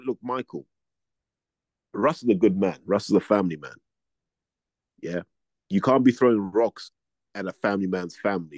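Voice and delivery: low, level and calm, never raising the voice. Retold or imitated. Calmly telling a young boxer off, calm and level. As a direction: talk him down gently without raising your voice. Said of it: "I didn't raise my voice at all".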